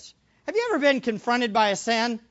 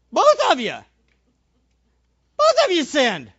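Both of you louder and higher; emphatic repeat; 5 semitones higher, 7 dB louder than usual. Shown as a demonstration. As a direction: hammer Both of you home.

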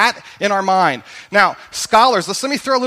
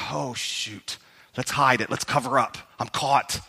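panicked; 7 semitones lower, 7 dB quieter than usual. Retold or imitated. David panics, voiced in sermon.

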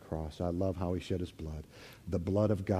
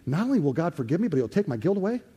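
high, loud, fast cry of wonder; amazed disbelief; 9 semitones higher, 7 dB louder, faster than usual. Acted. Pastor showing the congregation how to react, amazed high cry. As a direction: blurt it out like you can't believe the good news.

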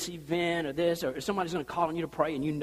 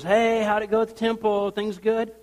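louder, higher bright call; cheerful homecoming greeting; 4 semitones higher, 5 dB louder than usual. Retold or imitated. Elizabeth greeting Zechariah home, lightly voiced. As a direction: greet her brightly at the door. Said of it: "he goes".

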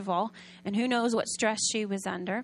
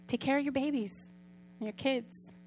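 tender comfort; 7 dB quieter than usual. Retold or imitated. Giver gently comforting the mother.

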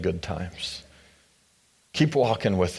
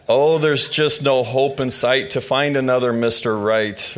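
put-on higher, animated old woman complaining; lively storybook granny, rising pitch; old Naomi voice; 4 semitones higher than usual. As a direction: ham up a wrinkled grandma pleading.

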